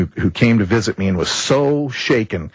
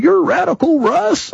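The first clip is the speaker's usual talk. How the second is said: put-on surprised old man. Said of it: "And he goes".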